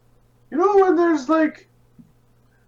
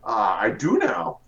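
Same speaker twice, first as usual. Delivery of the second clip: deep character voice. Acted. Player voices character, low far.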